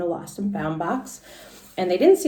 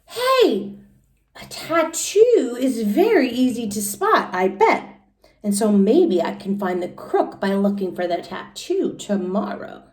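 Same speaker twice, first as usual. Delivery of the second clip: excited idea; 5 semitones higher, 4 dB louder than usual. Acted. Junie gets an idea in bed.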